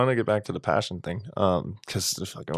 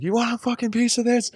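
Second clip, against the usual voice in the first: very high, strained, hammed-up bravado; wimpy guy squaring up to a big bully; mock tough challenge. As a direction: puff up like a tiny guy picking a fight. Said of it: "he's like".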